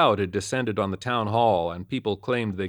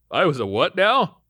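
higher, louder amused question; laughing; 7 semitones higher, 6 dB louder than usual. A narrator's reading. Jenkins amused at Lakely, higher and louder. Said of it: "he laughed".

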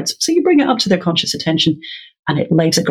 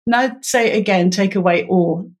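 teacher prompt. Shown as a demonstration. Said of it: "it was something like".

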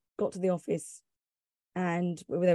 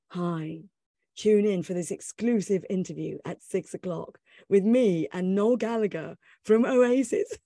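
radio promo read; 2 semitones lower than usual. Retold or imitated. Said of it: "it went something like".

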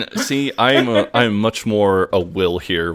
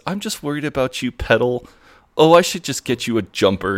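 higher-pitched doting mum; fussing mum impression; 5 semitones higher than usual. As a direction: lightly voice a mum fussing over her child. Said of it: "And she says".

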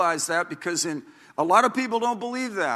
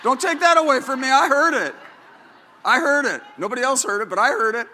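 higher and louder, laughing as he insists; laughing insistence; 7 semitones higher, 6 dB louder, faster than usual. Real, not acted. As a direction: protest through laughter, proud and giddy. Proud grandpa laughing insisting.

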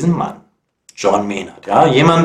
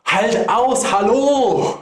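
calling out; 13 semitones higher, slower than usual. Acted. Captain calls through speaking tube.

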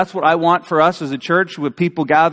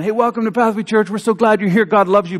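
lightly played church greeter, higher pitch; welcoming pastor; 4 semitones higher than usual. Pastor welcoming churchgoers in an imagined service, mock-friendly greeting. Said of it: "Just imagine".

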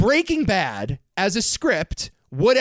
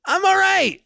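squeaky high-pitched put-on voice; high mock voice; 13 semitones higher than usual. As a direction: pipe it up high and smug.

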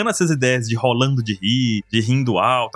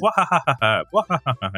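reading his laugh aloud. Shown as a demonstration. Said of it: "Se você for ver no meu Twitter".

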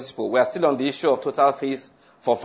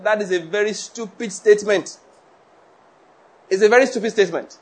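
emphatic condemnation; 6 semitones higher than usual. Real, not acted. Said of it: "preacher condemns statement".

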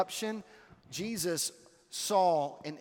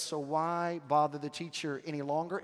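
a touch kinder, gently rising at the end; seemingly kind; 3 semitones lower, 4 dB quieter than usual. Retold or imitated. Messenger speaking to grieving Jairus, seemingly kind. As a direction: ask it mildly, as if meaning well. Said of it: "sounds as if that is a kind statement".

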